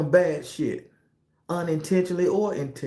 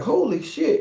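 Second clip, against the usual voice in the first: retold shock; 10 semitones higher than usual. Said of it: "I'm like".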